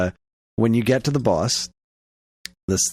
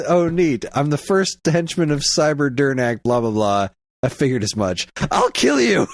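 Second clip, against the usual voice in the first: angry henchman; 2 semitones higher than usual. Retold or imitated. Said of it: "super angry".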